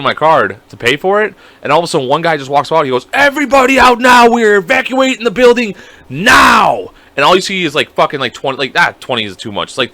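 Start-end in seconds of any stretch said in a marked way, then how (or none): 3.1-6.9 loud, high order to clear out; retold evacuation shout. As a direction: call out like staff clearing a building.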